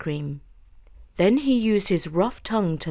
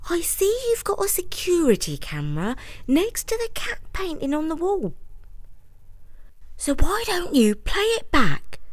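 higher, half-whispered advice; sharing a secret tip; conspiratorial customer; 8 semitones higher than usual. Acted. Customer voiced, partly whispered.

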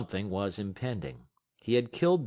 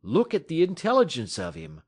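quick, louder eager urging; hasty; 5 semitones higher, 6 dB louder than usual. Acted. Scott hastily pointing out the dog's intelligence, eager. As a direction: rush to persuade. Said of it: "Scott went on hastily".

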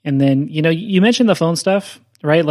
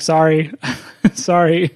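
laughing apology; slower than usual. Retold or imitated. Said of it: "you're like".

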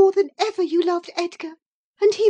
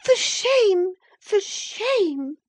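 very high, indignant outcry; angry; 7 dB louder, much slower than usual. A narrator's reading. Indignant sister-in-law rebukes Catherine, angry. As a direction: cry it out in high-pitched outrage. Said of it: "she repeated angrily".

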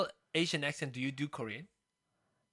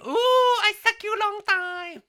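very high, loud cooing Asian accent impression; hammed-up cooing mock Asian accent; bad mock Asian accent; 8 dB louder, slower than usual. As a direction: coo it in an exaggerated stereotyped accent, way up high. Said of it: "the Polynesian prostitute".

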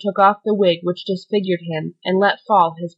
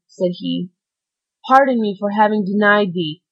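desperate prayer; 3 dB louder than usual. Acted. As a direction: beg for pardon with his last breath. Dying man's desperate prayer for pardon.

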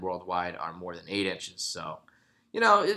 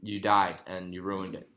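ordinary talk, nothing marked

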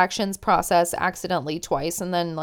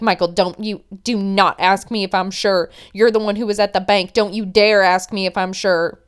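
retold stern fury; mock-angry warning, stressing each demand; flying off the handle; 2 semitones lower, 4 dB louder than usual. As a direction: imitate a girlfriend losing her temper, forceful. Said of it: "Angela flies off the handle".

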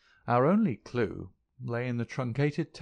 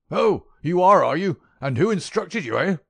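much higher, much louder sneer; sneering old miser; 9 semitones higher, 11 dB louder than usual. A narrator's reading. Old uncle scoffing at the detective, high loud sneer.

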